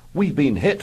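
a pilot calling out a hit; grim alarm. Acted. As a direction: sound the alarm grimly. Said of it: "volunteered Ginger grimly".

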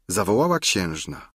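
plain reading voice

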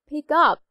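"pick up" with the stress on "up". Shown as a demonstration. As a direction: lean on "up", not "pick". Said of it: "부사의 강세가 온다고 했죠".

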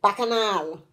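"Bacchanal" in a falling lilt, end syllable held; melodious stress. Shown as a demonstration. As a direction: let "Bacchanal" sing down on a long last syllable. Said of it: "See the melody".

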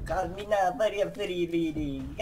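mock Jamaican accent through a laugh; laughing through a fake Jamaican accent. A fake Jamaican accent for a psychic hotline ad. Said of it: "making up a Jamaican accent".

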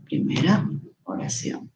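soft whispered repeat of the label; hushed self-reminder while marking text; whispered aside. Shown as a demonstration. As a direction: whisper it to yourself as you mark it. Teacher repeats label softly.

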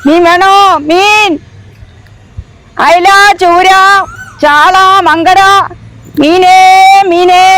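sing-song street vendor call; calling out wares. Acted. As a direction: hawk fish to the street. Fish seller calling out wares. (മീൻ വിളിച്ചു പറയുന്നു)

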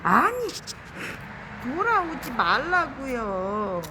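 high, loud burst of frustration; real exasperated shout at a stubborn beetle; exasperated yell. Real, not acted. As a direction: yell at the bug to stop turning back. Pleading with beetle to turn.

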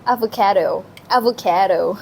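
Avocado. with a flat, clear kae sound; teacherly Avocado; demo pronunciation. Shown as a demonstration. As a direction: say Avocado. for a learner. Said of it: "Repeat after me".

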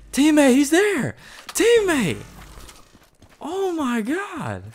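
high, drawn-out warning yell; shouting a warning to a teammate; urgent shout. Real, not acted. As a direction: call out loud to a teammate.

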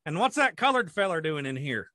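put-on country farmer voice; old farmer. Following up as a farmer in a gas station, country farmer voice. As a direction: say it like a suspicious rural old-timer. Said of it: "the old farmers would sit in there".

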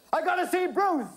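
very high, frantic fan outburst; hysterical scream. A narrator's reading. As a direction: scream with desperate longing. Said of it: "screamed Ginger hysterically".

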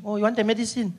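high, fake-helpful clerk; caricatured receptionist cooing; mock concern. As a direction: tease a patient with false kindness.

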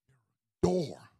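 hushed, breathy whisper on door. Shown as a demonstration. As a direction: lean in and whisper it. Repeats line as a whisper.

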